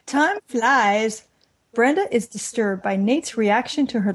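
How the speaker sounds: serious narrative voice. Pretend. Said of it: "Getting my serious narrative voice on now".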